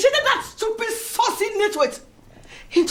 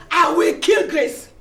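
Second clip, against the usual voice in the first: angry threat. Acted. Betty threatens Grace, shouting.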